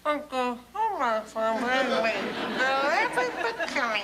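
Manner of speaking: mumbling through marbles in the mouth. Shown as a demonstration. Elocution drill with marbles in her mouth, barely understood. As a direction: talk with your mouth full of marbles. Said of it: "can't understand a word".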